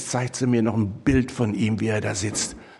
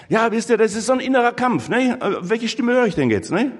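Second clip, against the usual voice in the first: much higher and louder, fast and urgent; emphatic; 10 semitones higher, 4 dB louder than usual. Real, not acted. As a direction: press the point home eagerly to the congregation. Preacher stresses inner fight. (eindringlich, viel höher und lauter)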